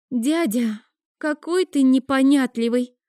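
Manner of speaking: put-on high childish scolding; little girl's voice. A narrator's reading. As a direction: read as a little girl exclaiming. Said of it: "раздался голосок Оливии".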